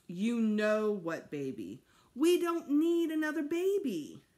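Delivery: put-on father and son arguing about the baby; heated argument. A narrator's reading.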